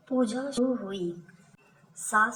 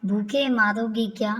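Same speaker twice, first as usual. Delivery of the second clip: louder hungry shout at the daughter-in-law; mother-in-law yelling; 5 dB louder, faster than usual. Acted. Mother-in-law shouts for food from the kitchen, louder. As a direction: call out loud, demanding food. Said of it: "सास फिर चिल्लाई".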